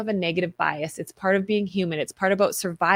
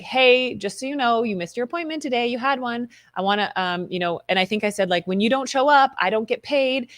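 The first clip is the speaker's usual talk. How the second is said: snarky but sweet; 2 semitones higher than usual. Retold or imitated. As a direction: sound friendly while slipping in the dig. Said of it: "it was very snarky ... covered in fluff".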